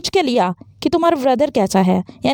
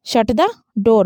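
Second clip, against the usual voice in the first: slow firm command, pausing before "door"; falling command; 3 semitones lower, much slower than usual. Shown as a demonstration. Teacher repeating the command for students, slow and falling. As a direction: order it, letting "door" drop. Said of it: "falling intonation का use करेंगे डोर से पहले".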